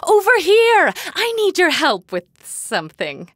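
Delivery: loud, high call. Acted. Scientist calling a stranger over for help, loud shout. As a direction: yell to wave someone over.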